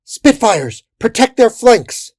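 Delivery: high, urgent battle shout; shouted command. A narrator's reading. Damselwing issuing commands to the pilots, shouted. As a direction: shout orders across the fray. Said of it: "Damselwing issuing commands".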